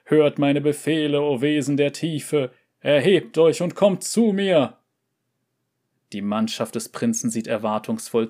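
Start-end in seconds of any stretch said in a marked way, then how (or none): 0.0-4.8 high, loud commanding call; fiery revolutionary speech. Acted. Prince summons the sea monster.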